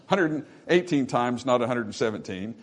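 chuckling through the repeat; repeated with a laugh. Real, not acted. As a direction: laugh lightly while restating the count. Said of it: "Amen. (laugh)".

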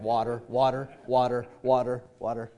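lightly imitated orders, low-pitched; girls ordering water. Girls at restaurant each order water, low even imitation. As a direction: repeat it evenly, one order after another. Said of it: "They're like".

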